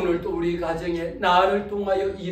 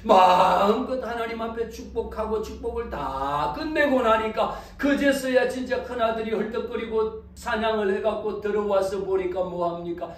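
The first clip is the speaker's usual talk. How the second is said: normal talking voice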